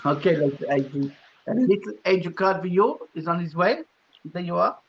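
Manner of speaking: half-hearted mock-French accent; bad French accent. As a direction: put on a clumsy French accent. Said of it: "That's a really bad French accent".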